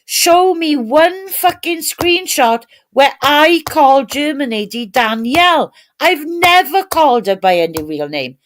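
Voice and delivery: retold rant. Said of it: "I was absolutely ranting".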